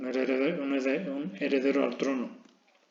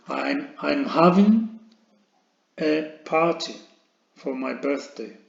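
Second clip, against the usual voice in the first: slow dictation; 4 dB louder, slower than usual. Shown as a demonstration. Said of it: "teacher dictating sentence in chunks".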